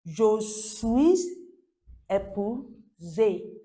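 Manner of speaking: "suis" ending in a z before "épuisé"; slow "Je suis", pause, drawn-out "épuisé"; liaison demonstration. Shown as a demonstration. Teacher showing the liaison, "Je suis épuisé" slowly sounded out. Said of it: "There's a liaison".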